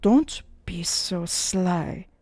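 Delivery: slow hushed whisper. Acted. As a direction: whisper it close in the ear. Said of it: "put his mouth to Gabriel's ears".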